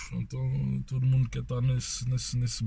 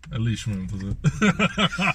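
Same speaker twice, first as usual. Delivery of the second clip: laughing; 3 semitones lower, much slower than usual. Real, not acted. Laughing jab at rival club.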